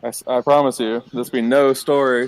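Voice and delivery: put-on slurred, drunken ranting; drunk slurring. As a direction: talk like a tavern drunk. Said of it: "like a crazy drunk person".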